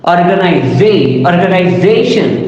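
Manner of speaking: stressed third syllable in "organization"; word stress demo. Shown as a demonstration. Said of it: "this is known as secondary".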